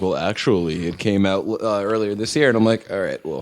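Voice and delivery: a hint of a pompous know-it-all; lightly mock smug internet commenter. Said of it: "you gave the person a pompous voice".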